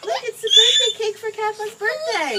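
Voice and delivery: loud, high sobbing through the words; real tears breaking through every word; crying. Real, not acted. Mother sobbing while reading scripture to her son.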